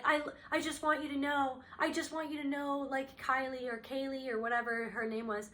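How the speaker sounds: mildly pathetic retold begging; pathetic pleading. Cheating husband tells his wife he loves her, mock pathetic pleading. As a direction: plead a little, imitating a pitiful husband. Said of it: "being very pathetic".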